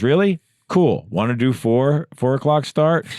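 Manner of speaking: high, loud eager voice; excited. Retold or imitated. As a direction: sound thrilled. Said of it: "He goes".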